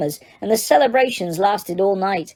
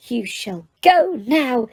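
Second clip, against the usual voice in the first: understated stern warning, hitting "go"; fierce elf command; 4 semitones higher, slower than usual. Acted. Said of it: "he said fiercely".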